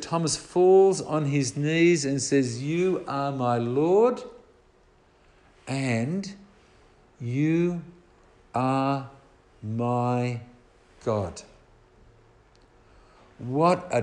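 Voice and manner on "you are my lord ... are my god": awed confession. Retold or imitated. Thomas falls on his knees.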